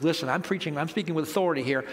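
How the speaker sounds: low, softened voice for a private word; private aside. Acted. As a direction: keep the self-important lecture discreet and low. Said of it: "pulls him aside and says".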